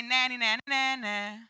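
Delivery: playground-style nah-nah teasing; mock taunt. Preacher imitating a God who waves it in your face, mock taunting. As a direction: imitate someone dangling a prize and teasing. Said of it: "wave it in your face and say".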